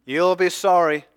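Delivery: hammed-up vengeful shout at the soldiers; angry retort. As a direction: hurl it back at the mockers as a threat. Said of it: "He could have shouted back at them".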